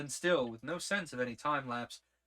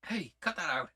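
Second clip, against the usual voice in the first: louder, snapped rebuke; sharp protest; 4 semitones higher, 5 dB louder than usual. Acted. Scolding McClare for fumbling with his fastener, loud and sharp. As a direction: stop him sharply.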